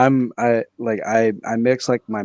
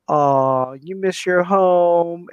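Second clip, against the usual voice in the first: drawn-out, higher-pitched teasing sympathy; mock pity; 5 semitones higher, much slower than usual. Friend teasing him about being half Thai, mock pity. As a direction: imitate a friend cooing false sympathy, slowly.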